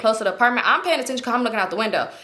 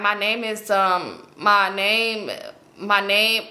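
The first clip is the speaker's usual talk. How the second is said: halting, trailing repeats with gaps; stalling for words; 2 semitones lower, much slower than usual. Retold or imitated. Passenger trying to invent a fake name, stalling. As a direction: fumble for a fake name and come up empty. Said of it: "it was not coming off".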